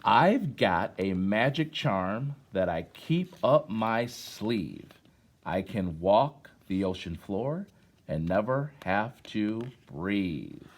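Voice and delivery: put-on slow, measured poetry reading to children; poem recitation. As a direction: let each line land with a pause. Reads poem to class.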